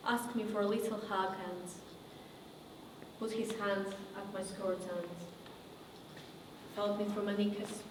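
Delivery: quiet and low, with long pauses; subdued painful recollection. Acted. Survivor recounting abuse by a TV host, subdued and halting. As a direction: confide it haltingly, softly.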